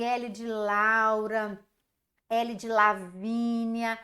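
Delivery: L de Laura, spelled out slowly; drawn out for children learning letters; slow syllable demo. Shown as a demonstration. Teacher drawing out the letter for the class. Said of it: "É a letrinha L".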